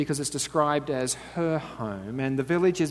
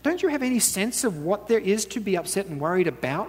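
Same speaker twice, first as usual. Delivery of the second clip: indignant retort; 5 semitones higher than usual. Acted. Martha retorting to Jesus.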